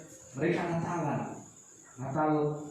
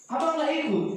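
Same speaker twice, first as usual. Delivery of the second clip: put-on child asking; 10 semitones higher than usual. Child asks big brother.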